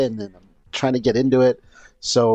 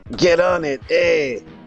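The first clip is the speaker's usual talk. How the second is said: put-on slow, drawled Belgian accent, pitched up; 6 semitones higher than usual. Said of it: "his Belgian accent in it".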